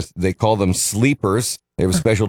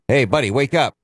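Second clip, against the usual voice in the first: waking a sleeper; 4 semitones higher, faster than usual. Retold or imitated. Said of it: "a human driver who'd be like".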